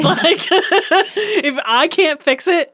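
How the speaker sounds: slow, melodramatic quote; dramatic whine. Retold or imitated. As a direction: wail it like a drama queen. Kirk's dramatic quoted rant.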